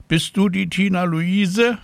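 high voiced caller on the telephone; a nurse calling a child with news, high and friendly; woman on the phone. A narrator's reading. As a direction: lift the voice high for the stranger on the line.

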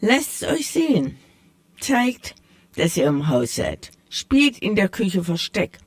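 a hint of a proud tomcat setting things straight; sly tomcat. The tomcat corrects the mice, lightly voiced and proud.

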